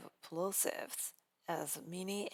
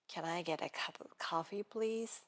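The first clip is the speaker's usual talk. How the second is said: fast linked repeat. Shown as a demonstration. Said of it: "I'm gonna repeat each sentence twice".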